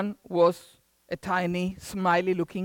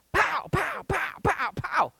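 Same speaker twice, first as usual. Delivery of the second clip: imitated blows; 11 semitones higher than usual. Acting out blows of the stick.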